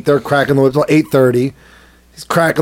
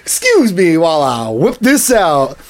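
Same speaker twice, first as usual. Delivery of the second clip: movie quote. Acted. Quoting the comedy that came to mind, hammed-up. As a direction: repeat the film gag with hammed-up intonation. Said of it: "Blazing Shadows came into mind".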